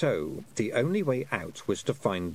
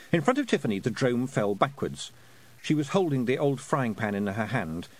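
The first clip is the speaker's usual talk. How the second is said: ordinary delivery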